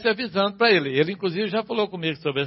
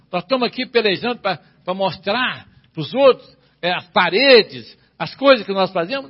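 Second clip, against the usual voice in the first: forceful preaching; 5 dB louder than usual. Acted.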